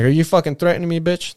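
high, loud confrontational yell; angry challenge. Retold or imitated. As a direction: bark the challenge right in his face. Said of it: "That's what I said".

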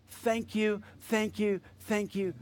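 whisper-soft gratitude, fading away; hushed thanks. Acted. Preacher closing in worshipful thanks to God, fading hushed thanks.

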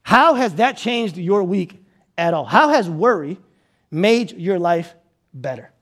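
low, drawn-out searching question; slow pointed question. Acted. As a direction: ask it slowly and let it hang. Rhetorical question to congregation.

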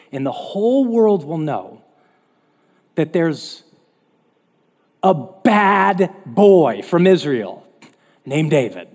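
a joking, slowed-down swagger on bad boy from Israel; mock swagger. Preacher misquotes David to the congregation with mock swagger. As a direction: misquote David as a cocky tough guy, tongue in cheek. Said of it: "That's not what he says".

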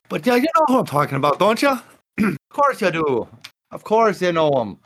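hammed-up confident bluff; smooth deceiver. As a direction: press him to agree with a grin in the voice. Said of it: "he sits there and he's like".

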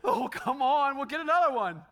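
the flesh urging a sneaky return of the broken item; tempting flesh. Retold or imitated. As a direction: play the greedy inner voice cajoling. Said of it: "And my flesh is like".

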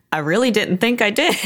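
high-pitched defensive squirm; sheepish protest. Retold or imitated. Shopper answering woman who heard "sir", sheepish. Retold awkward defence in grocery store.

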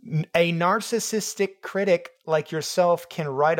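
slow, deliberate narcissistic, each syllable sounded out; careful narcissistic. Real, not acted. Reading the word narcissistic out loud, slowly and carefully. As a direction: ease through narcissistic syllable by syllable. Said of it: "he knew I couldn't say it out loud".

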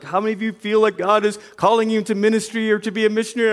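rushing through the altar call; altar call preacher. Retold or imitated. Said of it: "altar calls with".

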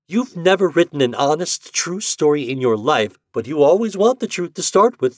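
loud, high, contemptuous woman; scornful young woman. A narrator's reading. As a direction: cut him down with scorn. Anne attacks him scornfully.

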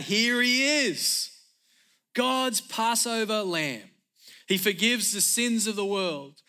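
high, drawn-out proclamation; yelled announcement. Acted. Preacher acting John yelling out to the crowd, proclaiming. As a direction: project it so nobody misses the moment. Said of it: "He yelled out".

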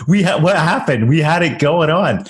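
playful wounded bewilderment; mock disbelief. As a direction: act out a blindsided salesperson. Acting the let-down salesperson.

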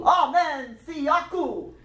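imitated African call. Shown as a demonstration. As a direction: lead the echo in a put-on African voice. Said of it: "say it with your African voice".

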